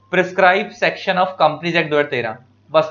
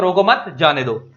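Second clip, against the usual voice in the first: slow "रोको मत", a stop, then "जाने दो"; pause after मत. Shown as a demonstration. Teacher explaining that we stop at commas, pause after "मत". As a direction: slowly, break between "मत" and "जाने दो". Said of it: "कॉमा पे हमें रुकना होता है".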